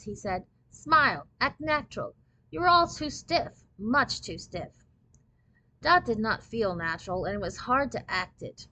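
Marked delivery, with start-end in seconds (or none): 0.7-4.8 higher-pitched, bossy instructions; critical, slowing down on the complaint; impatient photographer. A narrator's reading. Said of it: "He sounded like an impatient schoolteacher".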